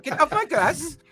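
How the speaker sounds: put-on grumpy old man. Joining the grumpy mayor bit.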